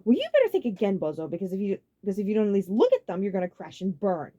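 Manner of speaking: loud, high, scolding; mild stifled anger; held-back frustration. A narrator's reading. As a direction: warn him, barely contained. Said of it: "held-back frustration".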